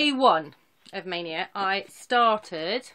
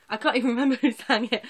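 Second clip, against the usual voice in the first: laughing; 3 semitones higher, 4 dB louder, faster than usual. Real, not acted. Laughing while repeating herself.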